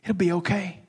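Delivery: quiet, gentle reassurance; soft comfort. Retold or imitated. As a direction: console softly. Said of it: "Jesus tells me".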